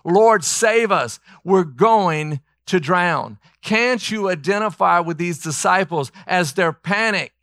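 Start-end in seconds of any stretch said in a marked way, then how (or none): 0.0-3.4 slow, raised cry for rescue; retold desperate shout; shouted plea. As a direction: call out in fear of drowning.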